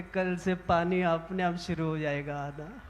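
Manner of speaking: low, soft, matter-of-fact reply; imitating an unruffled guru in a hushed voice; calm guru. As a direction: answer quietly and knowingly. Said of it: "गुरुजी कहते".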